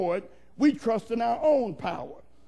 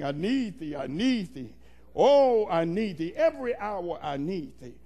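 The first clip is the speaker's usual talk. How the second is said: humble pleading; 3 semitones lower than usual. Acted. Acts out humble plea to the Lord.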